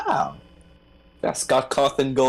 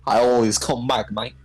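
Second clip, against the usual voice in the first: Aussie villain catchphrase delivery; mock Australian accent. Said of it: "should have given him an Australian accent".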